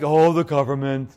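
mild mopey Eeyore moan; a hint of gloomy Eeyore, slow and sighing; lightly voiced Eeyore grumbling. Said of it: "Eeyores are like".

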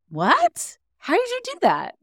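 high-pitched, loud mock amazement; playing the stunned crowd, pitch shooting up; flabbergasted. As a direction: squeal it in exaggerated disbelief. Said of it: "Everybody else is like".

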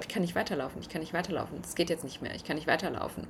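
quiet, mildly pleading mock fear; retold panic. Telling how she froze on the cliff with her ex-husband, quietly scared. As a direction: murmur it like sitting frozen on a cliff.

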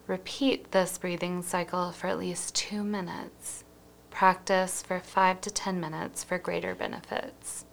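unhurried meditation guide, evenly paced; guided breathing meditation. Acted.

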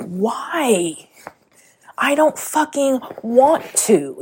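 high, drawn-out mock whine of refusal; whiny protest. Podcaster replays her old protest against her calling, whiny and high. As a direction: act out a reluctant, dragging complaint.

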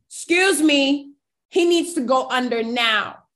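a nurse who will not budge, pushing her voice over the doctors. Retold or imitated. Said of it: "she got even louder".

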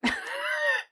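very high squealing mock laugh; imitated child's shriek. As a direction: squeal out a kid's playful shriek. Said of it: "And she went".

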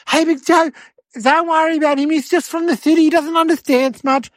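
high-pitched anxious placating; freaking-out uncle. Acted. Uncle placates Big Joe over his nephew, freaking out. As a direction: plead his case in a high, nervous voice. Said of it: "like, freaking out".

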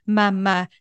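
a lightly voiced baby's first word; baby saying mama. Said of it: "if a baby goes".

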